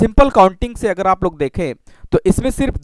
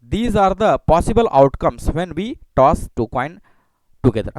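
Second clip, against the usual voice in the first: very slow, word by word; slow dictation; 2 semitones lower, much slower than usual. Shown as a demonstration. Teacher dictating the outcomes to students, very slow. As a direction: read it out slowly for notes. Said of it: "धीरे धीरे मैं पढ़ रहा हूँ".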